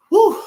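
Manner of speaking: high exhaled "whew"; relieved-sounding whew. Real, not acted. Recapper reacting to half of everything going, amazed whew.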